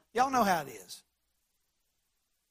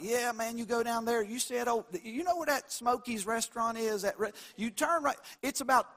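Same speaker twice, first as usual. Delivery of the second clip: west texas twang; 4 semitones higher than usual. Retold or imitated. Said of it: "it's gonna be by sight".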